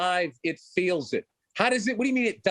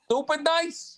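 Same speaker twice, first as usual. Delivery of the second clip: indignant; 9 semitones higher, slower than usual. Acted. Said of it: "I'm stupid?".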